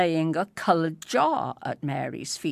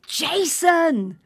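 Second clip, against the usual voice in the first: higher, louder call; teacher calling; 11 semitones higher, 5 dB louder than usual. Acted. Teacher calling Jason from the wings, loud call. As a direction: call the boy by name. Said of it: "came the voice again".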